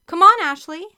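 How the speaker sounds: high, loud rallying call to a teammate. A narrator's reading. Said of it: "Carrie called".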